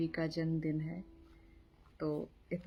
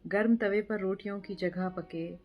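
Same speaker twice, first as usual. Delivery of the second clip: measured poetry reading with pauses after each line; poem recitation; 2 semitones higher than usual. Acted. Reciting a friend's poem for his birthday, measured poetry recitation. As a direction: recite it line by line, letting images land.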